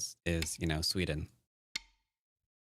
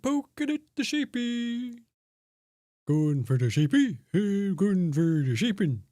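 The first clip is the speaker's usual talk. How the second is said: put-on Emil accent; 11 semitones higher, 4 dB louder than usual. Streamer slipping into his Emil accent while attacking, hammed high. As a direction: ham up the Emil accent on sheepin'. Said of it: "Gotta go back into my Emil accent".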